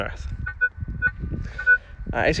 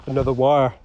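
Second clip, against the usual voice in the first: flat, lifeless reading; monotone voice; 3 semitones lower than usual. Retold or imitated. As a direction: read it with no emotion at all. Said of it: "in a monotone voice".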